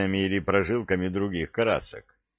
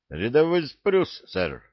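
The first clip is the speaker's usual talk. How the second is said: recruit's report; 7 semitones higher than usual. A narrator's reading. Farm boy giving his name to the sergeant, reporting. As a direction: report crisply to a superior. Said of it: "повторил своё".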